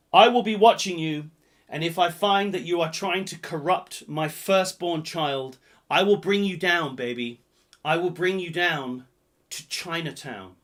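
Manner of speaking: lightly menacing character voice; lighter film quote voice. Acted. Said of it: "That's exactly how he says it".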